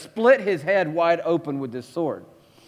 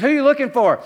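commanding call; 6 semitones higher, 4 dB louder, faster than usual. Pretend. Acted arrest scene.

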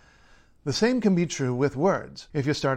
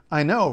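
"I know" hit louder, with emphasis; emphatic intonation; 5 dB louder than usual. Shown as a demonstration. Linguist explaining the phrase's striking fact, emphatic "I know". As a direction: stress "I know" firmly. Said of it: "the emphatic intonation shows".

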